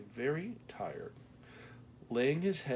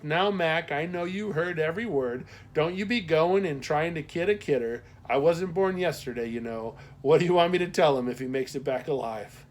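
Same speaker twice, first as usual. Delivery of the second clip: loud, higher Midwestern postmaster, teasing; Midwestern accent; 6 semitones higher, 10 dB louder than usual. A narrator's reading. Postmaster teases Mac for kidding, loud Midwestern accent. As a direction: tease him like a Midwestern matron. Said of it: "her Midwestern accent left no doubt".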